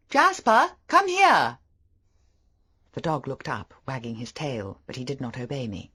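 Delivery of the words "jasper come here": loud, high command; shouting at the dog. A narrator's reading. Ordering the dog away from the stranger, loud shout. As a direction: yell the dog back across the shingle.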